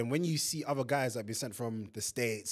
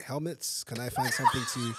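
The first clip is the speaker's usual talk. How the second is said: laughing panic. Retold or imitated. Retold panic search.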